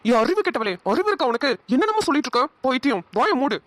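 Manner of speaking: outraged scolding. Acted. Man shutting her up after her outburst, outraged scolding.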